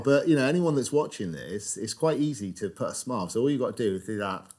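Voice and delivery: words pushed round a sideways pen; pen in teeth. Real, not acted. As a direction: talk with a pen gripped across the mouth. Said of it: "I've put a pen in my mouth".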